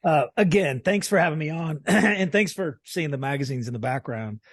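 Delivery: hoarse, worn-out voice; raspy whisper. Real, not acted. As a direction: talk through a raspy, tired throat. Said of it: "excuse my voice".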